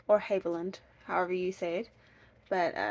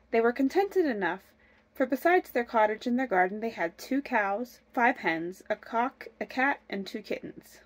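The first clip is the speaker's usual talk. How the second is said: measured fairy-tale narration; story narration. A narrator's reading. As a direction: read it like a storybook, clearly. Reads fairy tale aloud.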